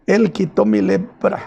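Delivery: a healed man calling out his joy down the street; joyful shouting. Retold or imitated. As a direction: cry it out as he runs away, calming toward the end. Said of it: "se va gritando".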